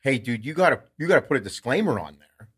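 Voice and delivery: a hint of caffeinated urgency; jacked up. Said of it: "like, a little jacked up".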